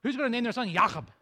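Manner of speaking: Jacob said with a grimace of distaste; preacher making the name sound gross; mock disgust. Shown as a demonstration. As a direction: spit out the name as if it tastes bad. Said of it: "it even sounds gross".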